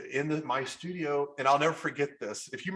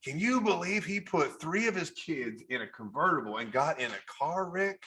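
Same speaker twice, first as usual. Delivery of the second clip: Southern car guy. Acted. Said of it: "my lines were like".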